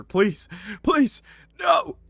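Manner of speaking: high, loud panicked plea; acted frantic pleading; desperate begging. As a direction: beg the attacker to stop, rising to a cry. Victim begs attacker to stop.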